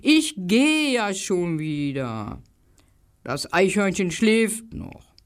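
lightly voiced slow grumble; mildly put-out little dog; a hint of a grumbling dog. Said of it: "knurrte der kleine gelbe Hund".

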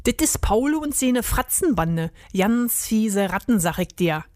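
lightly voiced Berlin-dialect rat; wary Berlin rat. Rat identifying the rival gang, Berlin dialect. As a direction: confide it like a streetwise rat.

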